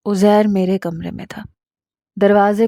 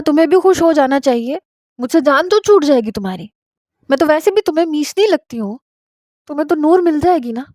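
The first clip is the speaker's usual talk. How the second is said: higher, fast, hurt and bitter; tearful outburst; 6 semitones higher, faster than usual. Acted. Wife lashes out at husband through rising tears, fast and higher. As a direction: spill it out fast before the sobs come. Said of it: "اب میں سسکیوں سے رونے لگی".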